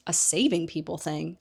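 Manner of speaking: Harry echoing Hermione's words in disbelief, rising at the end; incredulous echo. Retold or imitated. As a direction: repeat it back in disbelief, rising. Harry echoes her words in disbelief.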